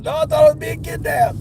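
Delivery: very high imitation of a rattled customer; retold alarm. Customer answers worried delivery driver, high mock alarm. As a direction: squeal it in mock panic.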